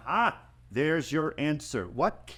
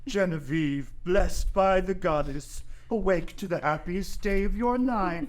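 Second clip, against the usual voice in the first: mock proclamation; 4 semitones higher, 3 dB louder than usual. Theo teasing, mock wake-up proclamation.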